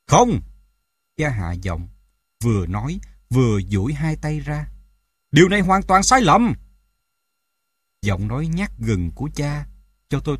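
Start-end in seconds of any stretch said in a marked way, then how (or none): 0.1-0.4 high, loud, abrupt refusal; cutting her off. A narrator's reading. Father interrupts the mother's pleading, sharp shout. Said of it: "cha cắt ngang lời mẹ". 5.3-6.5 high, loud objection; forceful protest. A narrator's reading. Father objects to the mother's plan, raised voice.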